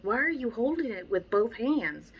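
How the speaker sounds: a trainer scolding a student holding the leash wrong; exasperated trainer. Retold or imitated. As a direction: fuss at them in disbelief. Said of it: "I'm like".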